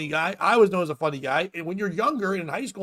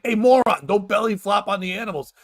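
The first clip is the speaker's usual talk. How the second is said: blunt scolding. Acted. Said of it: "don't pull any punches".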